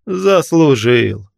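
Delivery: loud, very slow cry; drawn-out corpse shout. A narrator's reading. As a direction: proclaim it mockingly. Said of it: "крикнул один покойник".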